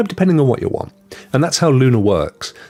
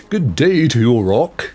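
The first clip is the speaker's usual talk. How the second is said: mock posh greeting. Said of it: "doing all the accents today".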